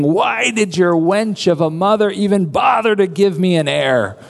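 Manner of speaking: lightly acted exasperation, dropping on the last words; Saul. King berating his son, mildly acted anger. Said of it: "Saul's not a very pleasant person".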